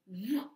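a rushing whoa like a wave; whooshing whoa. Shown as a demonstration. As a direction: push out the whoa like a wave coming in. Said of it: "like whooshing of waves".

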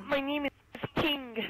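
put-on high, loud caricatured Asian accent; mock Asian accent.

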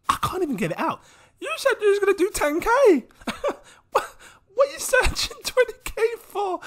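words forced out through real laughter; can't stop laughing; high pitched, breaking up with giggles; laughing fit. Real, not acted. Laughing fit, cannot get it out.

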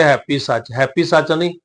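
ਹੈਪੀ ਸੱਚ run together quickly, "happy" as one word; hurried misreading. Retold or imitated. Teacher mimics hasty reciters, hurried run-together ਹੈਪੀ ਸੱਚ. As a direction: rush ਹੈਪੀ into a single short word before ਸੱਚ. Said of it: "ਕਈ ਕਾਹਲੀ ਨਾਲ ਪਾਠ ਕਰ ਜਾਂਦੇ".

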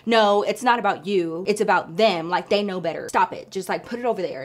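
imitating the boss cutting off the apology; bossy boss. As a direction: lay down the law, no arguing. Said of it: "this man was so bossy".

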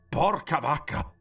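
loud, slowed-down amazed outburst; impressed exclamation. A narrator's reading. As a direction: exclaim it, awestruck, stretching the words. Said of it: "esclamò impressionato il ragazzo".

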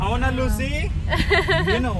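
pet talk. Real, not acted. Asking the dog Lucy.

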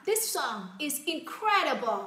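slow, savoured praise of a song; delighted demo. Shown as a demonstration. Teacher pretending to love a song, delighted. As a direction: rave about it, drawing it out. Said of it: "mình rất là thích thú nó nào".

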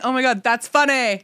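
tipsy amusement with a hint of laughter; drunk mom. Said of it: "my mom is so drunk".

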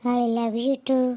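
a wife's slow tender echo. Acted. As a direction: answer him slowly and lovingly. Tender reply to husband.

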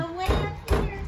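high, loud call from another room. Real, not acted. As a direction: call out across the camper. Calls out from kitchen.

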